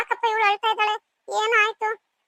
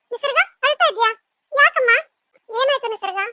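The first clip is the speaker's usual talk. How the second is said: alarmed concern; 5 semitones higher, 4 dB louder, slower than usual. Acted. Sister-in-law finds her crying.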